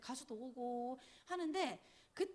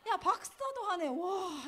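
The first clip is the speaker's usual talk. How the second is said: imitating dad's excited shout, higher and louder; dad's delighted exclamation; 5 semitones higher, 6 dB louder, slower than usual. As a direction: boom it out like a thrilled father. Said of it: "이러면서". (신난 아빠 흉내, 크고 높게)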